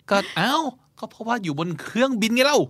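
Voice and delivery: high, exasperated excuse; defensive exasperation. Retold or imitated. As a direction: protest it in mock outrage. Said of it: "โมโหแล้วพยายามแก้ตัว".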